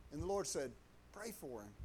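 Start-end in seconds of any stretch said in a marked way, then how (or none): 1.1-1.7 low, soft instruction; retold quiet prompting. The Lord nudging him about the coworker, low soft prompting. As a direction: drop the voice right down, a gentle nudge.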